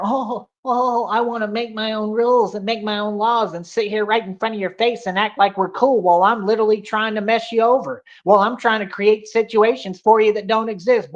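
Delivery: a lightly put-on mocking voice, sneering at them; mocking whine. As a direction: parrot them in a mildly snide tone. Mocking what they say.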